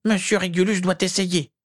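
high pleading elf voice; house-elf voice. Acted. Elf begging his master to try, high elf voice. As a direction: urge him on like a devoted little elf.

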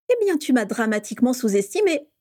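trumpeted. Acted. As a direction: proclaim it like a fanfare. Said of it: "claironna James".

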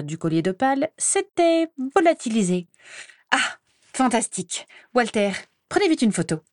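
a hint of a pushy reporter smelling a scoop; lightly voiced gossip reporter. Rita Skeeter to the officials, lightly eager and pushy.

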